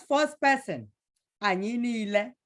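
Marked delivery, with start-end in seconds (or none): none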